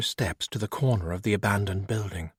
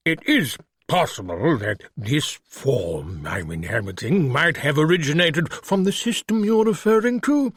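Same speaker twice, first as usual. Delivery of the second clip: lightly voiced refined British creature; refined British accent; 3 semitones higher than usual. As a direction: speak like a polite English gentleman in a monster's body. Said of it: "with a refined British accent".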